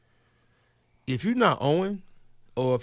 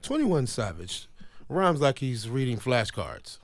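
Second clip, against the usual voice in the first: commercial voice; slower than usual. Shown as a demonstration. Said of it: "in a commercial voice".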